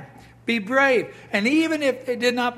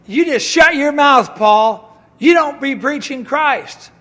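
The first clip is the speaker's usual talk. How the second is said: louder, higher gruff jailer taunt; mock guard telling Paul off, louder; 3 semitones higher, 7 dB louder, slower than usual. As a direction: bark it like a jailer shutting Paul up. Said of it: "They'd say".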